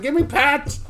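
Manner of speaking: very high squeaky pet voice; dog's voice. Pretend. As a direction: voice the dog begging for pats. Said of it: "she's like".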